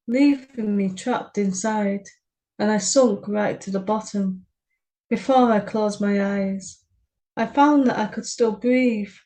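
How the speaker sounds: measured, even poem reading. Acted. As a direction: read the verse steadily and gravely. Reads her poem aloud.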